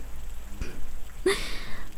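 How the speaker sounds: low-volume breathy scoffing laugh; scornful laugh. Acted. Scoffing at the nurse's lovely nonsense, quiet scornful laugh. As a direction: laugh softly to yourself in scorn.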